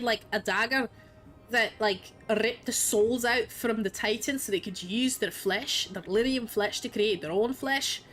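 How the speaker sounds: mock Scottish accent, playful retelling. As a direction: tell the story in a put-on Scottish lilt. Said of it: "speaking with a Scottish accent if you like".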